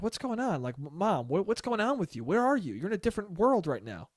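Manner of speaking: mildly annoyed questioning; baffled, mild annoyance, not really angry; a little annoyed. Retold or imitated. Son asking mom what's going on, a little annoyed. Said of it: "a little bit annoyed, but not that annoyed".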